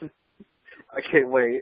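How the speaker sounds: talking through laughter. Starting the next news item about a fight, laughing while talking. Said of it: "I can't say it without laughing".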